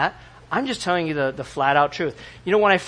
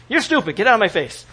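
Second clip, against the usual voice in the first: blunt New Yorker; 4 semitones higher than usual. Retold or imitated. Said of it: "people are gonna tell you".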